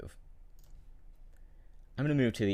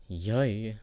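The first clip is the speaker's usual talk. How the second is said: usual speaking voice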